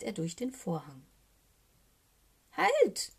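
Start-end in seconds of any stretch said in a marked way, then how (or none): 2.5-3.1 very high, loud raven cry; cawed shout. A narrator's reading. Socke is shut outside the door, high caw. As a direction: caw it out sharply to stop someone. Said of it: "krächzt Socke".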